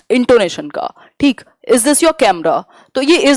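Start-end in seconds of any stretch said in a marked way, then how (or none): 1.7-2.6 "Is this your camera" with the pitch rising, then falling; rising and falling intonation. Shown as a demonstration. Teacher giving an example of intonation, "Is this your camera" said rising and falling. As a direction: let the tune climb and drop across "Is this your camera". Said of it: "rising and falling जो आपका क्या है".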